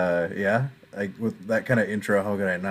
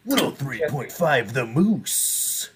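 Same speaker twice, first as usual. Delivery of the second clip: shock jock; 3 semitones higher, slower than usual. Retold or imitated. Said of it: "But then I say".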